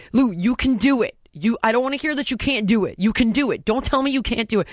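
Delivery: mildly worked-up mock parental insistence; retold hysterical insistence. Mother urging daughter Lou that she can do it, retold worked-up insistence. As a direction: retell an exasperated parent pushing hard. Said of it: "it makes me hysterical".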